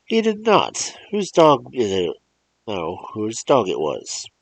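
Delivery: a frightened mother defending her son; trembling voice. Acted. Mother defending her boy to the old man, trembling and high. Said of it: "hear her voice tremble".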